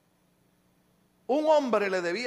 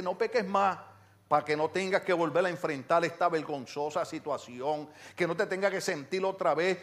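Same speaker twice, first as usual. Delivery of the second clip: gentle counsel; 3 semitones lower than usual. Acted. Christ counsels the woman to spare her shame, gentle counsel. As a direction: advise with care, no threat in it. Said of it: "Cristo le dice".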